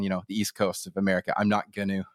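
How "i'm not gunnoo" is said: "gonna" as "gunnoo", lower; Vancouver Island pronunciation. Shown as a demonstration. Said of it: "no one would say that".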